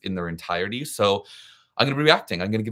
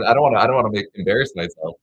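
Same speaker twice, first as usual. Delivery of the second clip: laughing; 7 dB louder, faster than usual. Real, not acted. Laughing off a request to sing.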